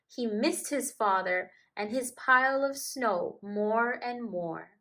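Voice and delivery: gentle, lively storybook reading; reading to children. A narrator's reading. Narrator reads a polar bear tale to children, gentle storybook voice. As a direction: read it like a bedtime picture book. Reads picture book aloud.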